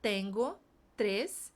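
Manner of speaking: slow Spanish drill, tap R in tres. Shown as a demonstration. Teacher drilling students slowly on tres. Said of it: "o tres é o R fraco".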